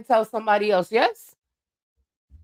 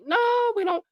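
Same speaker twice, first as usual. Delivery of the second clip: emphatic no; 11 semitones higher, faster than usual. Acted. Emphatic rebuttal.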